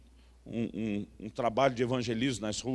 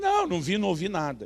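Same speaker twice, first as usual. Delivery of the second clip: high-pitched acted protest; emphatic denial; 4 semitones higher, faster than usual. Answering the pastor's questions about visions, emphatic high denial. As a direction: start high on the first no, then come down.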